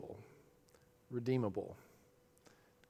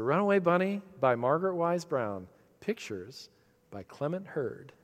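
bedtime title announcement; 2 semitones higher than usual. Shown as a demonstration. Preacher to congregation, recalling reading to his girls, lilting bedtime intro. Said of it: "That's how we used to introduce it to our girls".

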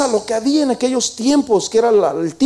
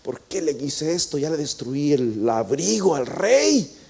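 nervous; 7 semitones lower, 5 dB quieter than usual. Acted. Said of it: "estaba todo nervioso".

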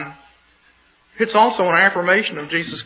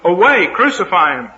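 crowd crying out; 2 semitones higher than usual. Acted. Chief priests demanding crucifixion, a mild read-aloud shout. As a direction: call it out like an angry mob. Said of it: "They therefore cried out".

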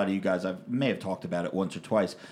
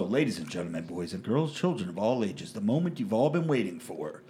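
grand entrance announcement. Acted. Announcing the weekly winner.

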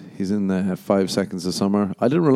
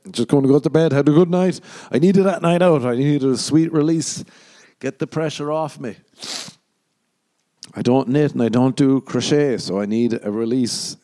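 put-on drunk rambling; 5 semitones higher than usual. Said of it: "drunk enough to be like".

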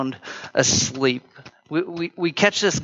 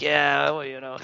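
groggy voice; 4 dB quieter than usual. Retold or imitated. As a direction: fake sleepy mumble fading very quiet. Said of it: "You give them this groggy voice".

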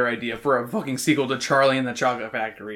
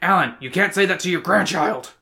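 higher, mildly scandalized reprimand; mock scolding; 4 semitones higher than usual. Mom scolding dad over his joke, mock outrage. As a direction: imitate a mom telling him off. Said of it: "yell his name".

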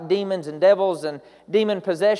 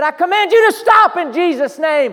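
loud, high rebuking shout; commanding the demon to stop; frustrated command; 10 semitones higher, 10 dB louder than usual. Retold or imitated. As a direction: cast the demon out, fed up. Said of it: "got so frustrated, he said".

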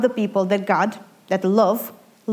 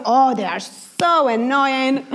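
exasperated drag; 3 semitones higher, much slower than usual. Retold or imitated. Irritated at other drivers.

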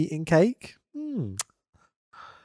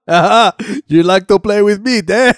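laughing mock quip; 2 semitones higher, 4 dB louder than usual. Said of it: "says to another gentleman".

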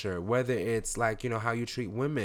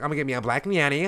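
mocking white person voice; 4 semitones higher, 5 dB louder, faster than usual. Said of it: "that's white people shit".

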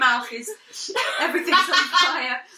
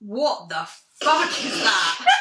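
disgusted shout; 4 semitones lower, slower than usual. Real, not acted. Tastes mystery drink.

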